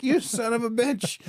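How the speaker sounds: high, slowed, disbelieving curse; father to unblinking son, mock exasperation. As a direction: drag it out in amused outrage. Kid calmly admits it.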